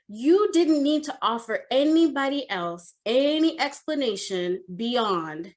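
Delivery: deliberate, emphatic boss laying down the law; lightly voiced firm manager; authoritative lecture. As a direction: stretch and stress the key words.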